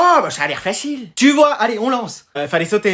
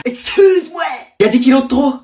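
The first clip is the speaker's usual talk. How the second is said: shocked exclamation; 4 semitones higher than usual. Acted. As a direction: burst out in disbelief. Agent annonce excédent. (exclamation choquée et forte)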